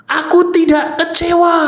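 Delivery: high-pitched, sustained recital; deliberate self-affirmation. Shown as a demonstration. Demonstrating a self-statement, pitched up.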